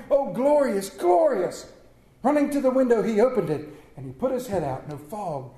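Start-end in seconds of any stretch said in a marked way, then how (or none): 0.1-1.7 climbing higher with each word; rapturous. Acted. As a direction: let joy burst out. Scrooge rejoicing at the bells.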